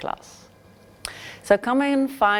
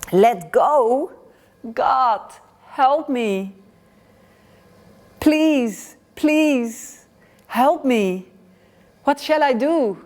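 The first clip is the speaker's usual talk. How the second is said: high, louder frantic pleading; panicked begging; 5 semitones higher, 3 dB louder, slower than usual. Acted. Pilgrim on the cliff refuses to let go and begs God, high frantic pleading. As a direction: beg for your life.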